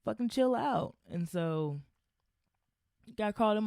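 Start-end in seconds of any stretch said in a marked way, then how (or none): 0.1-0.9 firm callout. Retold or imitated. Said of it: "I was like".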